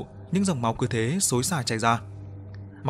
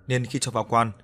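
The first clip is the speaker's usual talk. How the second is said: usual speaking voice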